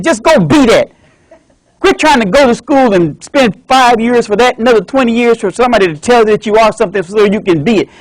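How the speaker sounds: insisting his dad can beat anything; eager son. Acted. Son argues with doctor.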